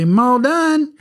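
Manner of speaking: put-on little girl's high, Southern-drawled call; exaggerated Southern twang. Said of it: "it sounded so Southern".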